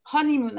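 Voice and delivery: Honeymoon with a clear breathy H at the start; aspirated H in honeymoon. Shown as a demonstration. Teacher models the English H for her class, breathing it out. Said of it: "on prononce bien le H".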